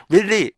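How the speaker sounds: "really" as rilli, one short vowel; two plain syllables in "really"; textbook-style "rilli" for "really"; dictionary REALLY. Shown as a demonstration. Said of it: "이렇게 나와 있다고".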